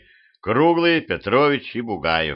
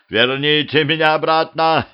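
high, loud desperate cry; loud, frantic demand; shouting; 6 semitones higher, 4 dB louder than usual. A narrator's reading. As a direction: cry out in panic. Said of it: "закричал он".

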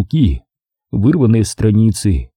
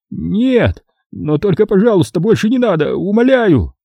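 high, desperate caretaker pleading; begging; 9 semitones higher than usual. A narrator's reading. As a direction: beg for mercy. (смотритель высоко и отчаянно умоляет)

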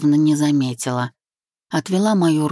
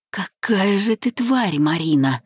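slow, raised angry rebuke; understated growling accusation; rumbling anger; 4 semitones higher than usual. A narrator's reading. Groom rebuking his bride Marina, rumbling anger. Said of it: "пророкотал друг".

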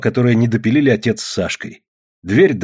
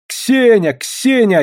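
high, drawn-out desperate call; louder, pitched-up cry for help; 12 semitones higher, 4 dB louder, much slower than usual. A narrator's reading. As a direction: call out for someone in despair. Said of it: "отчаянно кричала она".

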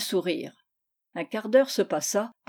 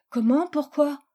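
put-on higher-pitched child's startled questions; taken aback; 6 semitones higher, 3 dB louder than usual. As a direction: ask in offended surprise, lightly acted. Girl taken aback by father's verdict. (questions d'enfant étonnée)

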